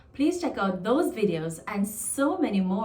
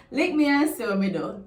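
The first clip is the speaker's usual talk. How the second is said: threatening tone; 3 semitones higher than usual. Shown as a demonstration. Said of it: "it's like a threat".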